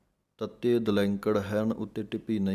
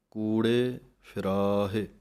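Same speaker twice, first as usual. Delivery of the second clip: slow recitation; slower than usual. Shown as a demonstration. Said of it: "ਇੱਥੇ ਹੀ ਵਿਸਰਾਮ ਹੈ".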